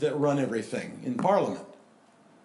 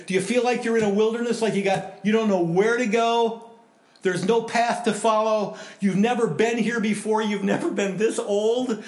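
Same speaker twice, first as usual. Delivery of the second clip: rising preaching; 5 semitones higher, 4 dB louder than usual. Real, not acted. Pastor preaching at rising intensity.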